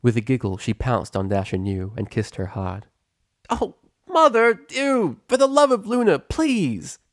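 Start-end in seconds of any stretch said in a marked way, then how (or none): 3.5-7.0 high, slow mortified daughter voice; embarrassed protest. Acted. Pepper protests her mother's kissing, high slow mortified. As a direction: drag out the disgust.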